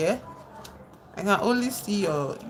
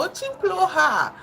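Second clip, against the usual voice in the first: Очень плохо burst out high and loud, half laughing; exclaiming high and loud; 10 semitones higher, 4 dB louder than usual. Real, not acted. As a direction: toss it off in a loud, high, self-mocking cry. Laughing denial of good Russian.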